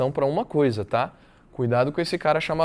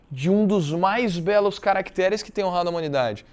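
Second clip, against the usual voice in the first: declaimed literary reading; 3 semitones higher than usual. Acted. Teacher quotes the graveside speech to the class, declaimed reading. Reads the narrator's oration.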